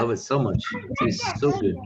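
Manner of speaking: talking while eating; mouth full. Real, not acted. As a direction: say it through a mouthful. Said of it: "don't talk with your mouth full".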